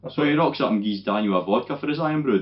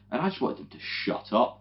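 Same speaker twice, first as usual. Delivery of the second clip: ordinary talk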